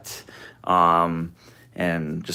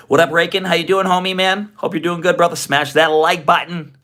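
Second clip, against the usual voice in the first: high, loud hype shout-out; excited greeting; 9 semitones higher, 4 dB louder than usual. Real, not acted. Hyped greeting to stream viewers.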